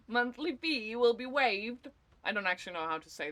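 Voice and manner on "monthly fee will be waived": slow, attempted British accent; a fumbling try at a British accent; mock British accent. Streamer parroting the game announcer in a mock British accent. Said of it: "in a British accent".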